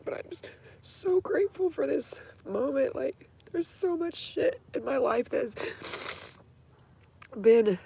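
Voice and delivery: tearful whisper, slow; breathy sobbing gratitude; whispered crying. Real, not acted. Grateful, still crying.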